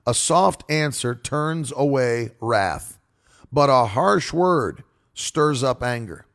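slow, deliberate verse reading; scripture reading. Acted. Preacher reading the proverb to listeners, slow and deliberate. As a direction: let each word of the proverb land. Reads a Bible verse slowly.

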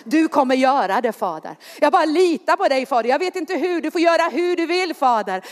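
quick, intimate prayer spoken to the Father; model prayer. Shown as a demonstration. Preacher giving the congregation words to pray, quick and trusting. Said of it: "Säg".

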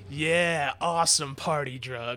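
lightly voiced doctor cheering the drug; mock doctor. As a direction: play the doctor as a party guy. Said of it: "one of the guy goes".

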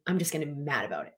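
fast, whispered grumbling aside; whispered sulky grumble. Retold or imitated. Coach imitates a victim grumbling, fast whisper. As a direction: mutter the sulk under the breath.

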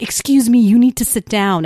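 a loud, stern "sit down" from a staff member; stern adult order. Retold or imitated. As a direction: bark it like an official spotting a stray student.

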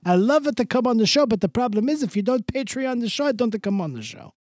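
a showbiz guest thanking the patrons; hammed-up guest voice; Mister Del Rossi. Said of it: "Mister Del Rossi".

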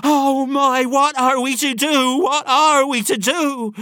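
high, panicked woman's lament; despairing wail. A narrator's reading. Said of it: "a gesture of despair".

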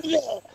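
high-pitched mock retch; retold whoa. Retelling a movie gag to co-hosts, mock disgusted whoa. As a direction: imitate a grossed-out guy's whoa. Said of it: "then the guy's like".

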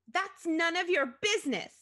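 high, loud, indignant retort; brusque businesswoman. A narrator's reading. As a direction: shut the caller down. Reading brusque businesswoman on phone.

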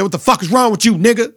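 heated imitated shout at the opponent; Bobby Portis mock yell. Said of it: "'Cause Bobby said".

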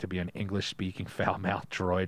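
low, even reading voice; fun-fact read. Acted. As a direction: read trivia aloud in a steady monotone.

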